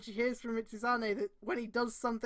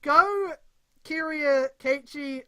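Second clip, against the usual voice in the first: louder reread; 4 semitones higher, 7 dB louder, much slower than usual. Shown as a demonstration. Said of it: "Say that sentence again?".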